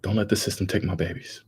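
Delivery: imitating a dying cousin's plea at normal volume; retold plea. Cousin begging mama to protect her kids, lightly voiced plea. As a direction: plead for her children without acting it out big. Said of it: "she was just like".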